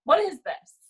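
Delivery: high-pitched retold dismay; incredulous high complaint; exasperated disbelief. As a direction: act out staring at an awful work list. Dismayed at the assigned work.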